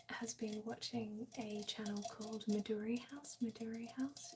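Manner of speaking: soft ASMR whisper; breathy close whisper to chat. Real, not acted. ASMR stream whispering throughout.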